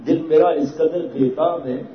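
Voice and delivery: slow, drawn-out recitation of a couplet; lingering on each word of the verse; slow poetic recitation; poem recital. Acted. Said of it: "یہ شعر حضرت کا ہوا".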